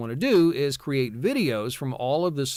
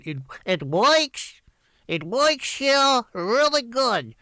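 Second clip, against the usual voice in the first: much higher, slow comic wise-guy drawl; Buddy Hackett voice; 10 semitones higher, slower than usual. Shown as a demonstration. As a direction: ham it up like an old Borscht Belt comic. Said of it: "kind of a Buddy Hackett".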